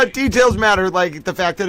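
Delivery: giggly mock repeat; mocking echo. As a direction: parrot the witness while still laughing.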